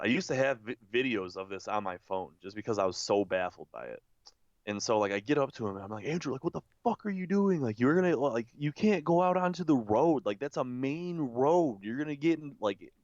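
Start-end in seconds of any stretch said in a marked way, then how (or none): 6.1-12.9 high, fast urgent telling-off; alarmed scolding. Retold or imitated. To drunk Andrew near the road, alarmed scolding. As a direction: scold him in a rush.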